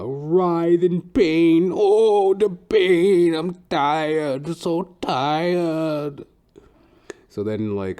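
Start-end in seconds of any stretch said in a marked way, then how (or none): 0.0-6.2 high, slow groan fading to a whisper. Retold or imitated. Barber writhing in mock agony, high moan to whisper. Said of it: "eccentric old Trinidadian dude".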